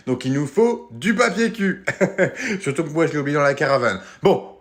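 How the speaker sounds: upbeat high counselor voice, hammed-up cheer; fake-cheerful host to kids; camp counselor.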